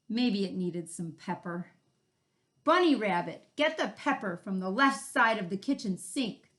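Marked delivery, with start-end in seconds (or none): 2.6-6.5 growled. Acted. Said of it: "the varmint growled".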